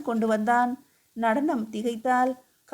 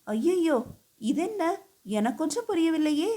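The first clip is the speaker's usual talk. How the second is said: higher, fast bewildered alarm; accused dancer pleads, high and hurried in alarm; distressed cry; 5 semitones higher than usual. A narrator's reading. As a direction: cry out in panicked confusion. Dancer accused, wringing her hands.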